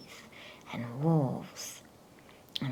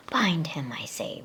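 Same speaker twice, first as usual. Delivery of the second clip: whispered witch command; 5 dB louder than usual. Acted. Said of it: "repeated the White Witch".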